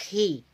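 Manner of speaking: hi said with slightly reduced thickness. Shown as a demonstration. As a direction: lighten the hi a little. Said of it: "kalau di kasro".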